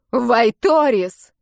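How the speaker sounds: a howl of rage down the corridor; furious yell. Acted. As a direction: scream the name at the walls. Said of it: "Мой вопль отскакивает от стен".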